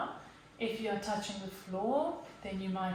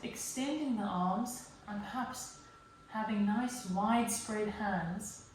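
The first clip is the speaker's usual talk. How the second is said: guided yoga meditation. Real, not acted. Yoga teacher settles the class into child's pose, calm guided delivery. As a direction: gently talk them down into stillness, leaving space.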